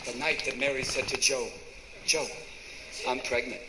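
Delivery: very low, hushed-style storytelling with pauses; low confiding voice. Acted. Mary breaking news to Joe, low and halting. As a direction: drop deep and pause before the news.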